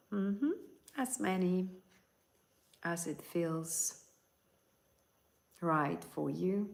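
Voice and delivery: calm guiding voice, unhurried; guided meditation. Acted. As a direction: lead them gently into relaxation.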